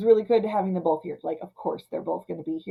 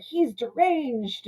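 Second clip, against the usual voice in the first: slow ominous verdict; 6 semitones higher, much slower than usual. Retold or imitated. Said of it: "Horror's all just like".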